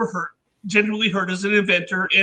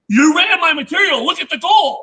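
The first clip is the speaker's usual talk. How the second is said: higher, slightly raised accusing voice; mad accusation; 5 semitones higher, 3 dB louder than usual. Retold or imitated. Dave accuses inventor of running his gold material, acted anger. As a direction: imitate an angry prospector pointing at evidence. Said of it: "because he's mad".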